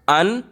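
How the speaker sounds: "अनफेमिलियर" in three separate chunks, अन, फेमि, लियर; long pauses splitting "अनफेमिलियर" into three beats; broken into syllables. Shown as a demonstration. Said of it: "तीन झटका हमें लग रहा है".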